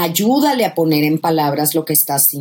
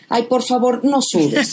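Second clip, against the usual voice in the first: higher, exasperated mock of a nagging friend; mock scolding; 4 semitones higher than usual. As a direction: mockingly scold someone for sweating. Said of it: "Tú no le dirías a alguien".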